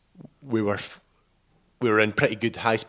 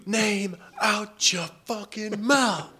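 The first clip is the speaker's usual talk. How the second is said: Will Smith quote; 10 semitones higher, much slower than usual. Retold or imitated. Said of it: "a bit of a Will Smith moment".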